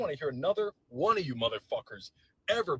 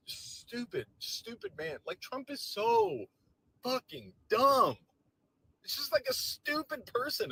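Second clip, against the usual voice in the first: high, loud, slow exasperated rant; higher, louder and slower fury; furious rant; 10 semitones higher, 3 dB louder than usual. Real, not acted. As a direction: spit each word in disbelief. Ranting at Trump.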